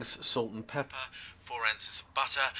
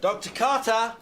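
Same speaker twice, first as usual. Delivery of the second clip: high, loud shouted name; shouting; 12 semitones higher, 5 dB louder than usual. Acted. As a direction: shout it out, pitched way up. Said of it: "sorry, was I shouting".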